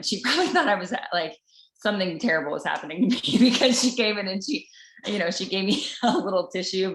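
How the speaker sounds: amused giggles breaking into the story; laughing while telling. Real, not acted. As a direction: chuckle through the memory. Laughing at the Indian woman's reaction.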